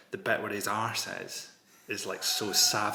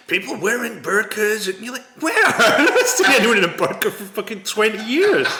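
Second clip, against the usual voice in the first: excited; 9 semitones higher, 14 dB louder than usual. Real, not acted. Incredulous, laughing.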